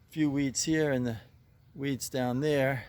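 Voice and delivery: a little winded from weeding; slightly breathless, tired from yard work; out of breath. Real, not acted. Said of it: "getting kinda winded here".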